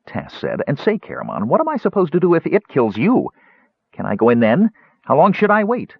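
high, rapid kender questions; pestering kender. Acted. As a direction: pester him with eager questions.

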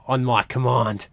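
slow, lightly acted movie-hero line; a hint of Gladiator's commander, drawn out; Russell Crowe in Gladiator. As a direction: quote the battle command slowly, lightly in character. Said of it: "from Gladiator, Russell Crowe".

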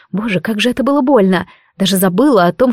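ordinary delivery, nothing marked

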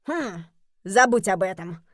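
Jeremy snaps at Robert; snapping. Acted. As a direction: bite the words off. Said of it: "огрызнулся Джереми".

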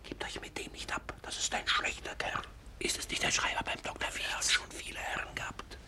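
whispered warning behind his back; hushed warning. Acted. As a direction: warn them under your breath. Warning the others about him. (geflüsterte Warnung)

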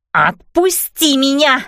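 demanding while struggling free; struggling against restraints. A narrator's reading. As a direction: strain against held arms, slowly. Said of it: "пытаясь вырваться из объятий".

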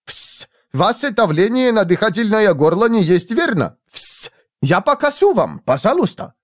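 put-on very high accented voice with hissed intakes; polite whistling Japanese instructor. A narrator's reading. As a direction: correct politely, hissing between phrases. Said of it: "вежливо просвистел он".

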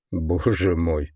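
quiet, slow, awed surprise; softly surprised. Acted. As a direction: breathe it out in soft wonder. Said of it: "мягко удивившись".

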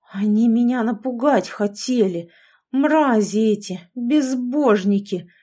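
put-on old man seething at the witches through teeth; through gritted teeth. A narrator's reading. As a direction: grind the insults out through teeth. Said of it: "процедил сквозь зубы".

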